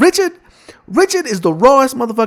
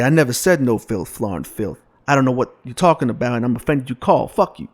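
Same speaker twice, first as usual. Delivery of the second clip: much lower and softer, fast mumbling Cosby; low Cosby impression; 12 semitones lower, 6 dB quieter than usual. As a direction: sink the voice low and mumble it out quickly. Cosby denial, cursing.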